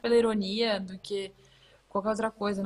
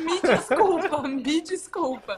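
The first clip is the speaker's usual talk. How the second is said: laughing apology; 6 semitones higher, 3 dB louder, slower than usual. Real, not acted. Laughing apology after bad accent.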